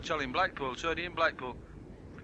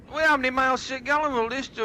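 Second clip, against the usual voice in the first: loud, fast, high question; loud eager question; 8 semitones higher, 5 dB louder, faster than usual. Retold or imitated. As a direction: fire the question quick and loud. Buyer asking, loud and fast.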